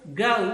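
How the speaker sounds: "गौ" said as a gliding a-u; diphthong "gau". Shown as a demonstration. Teacher answering her own question for the class: "गौ" with a glide. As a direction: repeat "गौ" with a clear a to u glide. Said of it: "क्या बोलते हैं इसको?".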